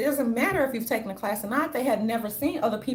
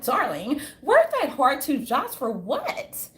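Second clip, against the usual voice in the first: Karen impression; 3 semitones higher than usual. Mocking a Housewives Karen to viewers, light put-on posh voice. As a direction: mimic a condescending Karen. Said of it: "she's like".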